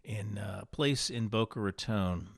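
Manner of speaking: blocked nose, congested voice; stuffy nose. Real, not acted. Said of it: "so stuffy here".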